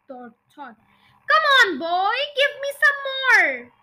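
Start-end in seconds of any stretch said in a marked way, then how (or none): 1.3-3.7 high, loud demand; demanding yell. A narrator's reading. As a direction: yell impatiently for more. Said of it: "she yelled".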